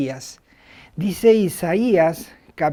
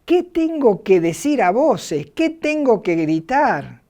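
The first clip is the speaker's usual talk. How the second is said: pleading prophet; 4 semitones higher than usual. Retold or imitated. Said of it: "Y yo respondí".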